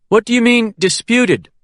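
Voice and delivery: surprised question. A narrator's reading.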